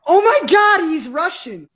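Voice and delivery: high, thrilled squeal of discovery; mock excited gasp. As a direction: gush like a giddy classmate. Classmates excited at new kid.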